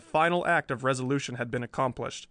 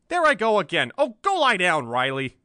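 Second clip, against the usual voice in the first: much higher, louder exasperation; irritated outburst; 6 semitones higher, 7 dB louder than usual. Acted. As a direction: wave him off angrily. The speaker scolds himself, Riley.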